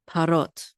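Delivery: parot with the weight on ROT; stress on last syllable. Shown as a demonstration. Teacher showing the word's accent, last-syllable stress on parot. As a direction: land firmly on the final syllable of parot. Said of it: "the accent of this word is on the last syllable".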